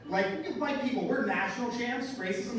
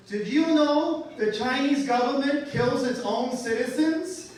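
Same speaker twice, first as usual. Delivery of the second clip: put-on loud, slow, high-pitched kid voice; a louder, higher, slower know-it-all little girl; child's retort; 6 semitones higher, 7 dB louder, slower than usual. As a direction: deliver it like a smug five-year-old. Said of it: "then she retorted".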